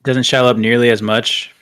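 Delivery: winded, out of breath after squats. Real, not acted. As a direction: talk while catching your breath. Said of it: "I'm a little out of breath".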